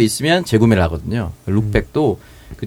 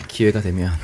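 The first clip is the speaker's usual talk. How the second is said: sexy; 2 semitones lower, 3 dB quieter than usual. Shown as a demonstration. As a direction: breathe 기회가 되면 seductively. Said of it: "섹시하게 좀".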